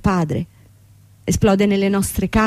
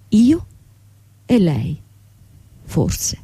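whisper; 2 semitones lower, much slower than usual. Acted. Boss and employee whispering an intimate maybe. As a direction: let it fade to a breath.

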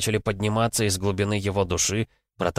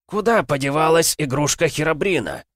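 high, loud monstrous roar; roaring zombie king; 8 semitones higher, 4 dB louder than usual. Acted. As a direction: bellow it like a mad monster. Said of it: "взревел Ксатул". (рёв короля зомби)

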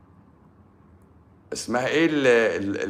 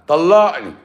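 mock threatening demand; 4 semitones higher, 5 dB louder, slower than usual. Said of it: "هي بتهددني بقى".

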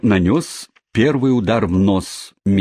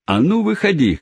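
cabman shouting; 10 semitones higher than usual. Acted. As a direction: call him out to fight. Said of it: "кричал кэбмен".

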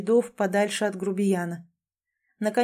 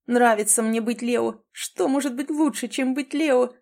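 joyful dog; 4 semitones higher than usual. Acted. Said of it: "пёс радостно тявкнул".

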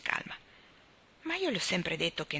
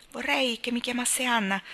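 a higher, eager burst; impulsive exclamation; 5 semitones higher than usual. Acted. Anna asking Miss Cornelia to use her first name, impulsively. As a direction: blurt it out warmly on impulse. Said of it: "esclamò Anna impulsivamente".

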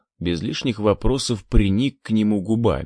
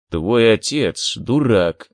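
wheezing; 3 dB louder, slower than usual. Acted. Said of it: "просипел Максимов".

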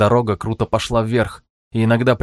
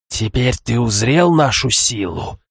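slow, gloating villain voice; mustache twirling villain; slower than usual. Acted. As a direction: savour every word like a villain. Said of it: "раздался зловещий хохот".

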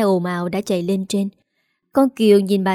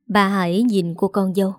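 usual speaking voice

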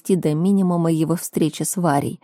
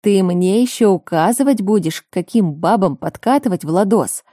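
worked up; 4 dB louder than usual. Acted. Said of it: "явно заведясь".

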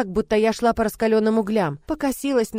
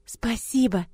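happy whisper; 4 semitones higher, slower than usual. Acted. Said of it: "счастливо шепнула она".

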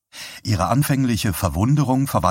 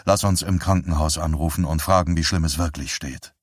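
gentle; 3 semitones lower than usual. Acted. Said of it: "sagte er sanft".

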